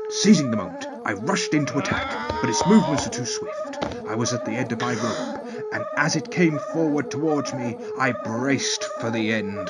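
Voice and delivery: lightly posh storyteller voice. Acted. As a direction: read it in a hint of posh. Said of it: "the posh voice".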